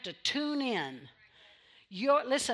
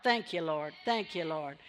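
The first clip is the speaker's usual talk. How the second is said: ordinary delivery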